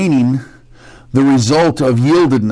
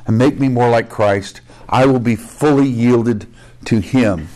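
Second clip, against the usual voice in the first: humble prayer; 2 semitones lower than usual. Retold or imitated. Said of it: "or it's saying".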